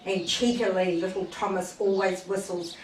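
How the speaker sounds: lively storybook reading voice; reading to a child. A narrator's reading. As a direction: read the story aloud to a little listener. Reads a Thomas story to child.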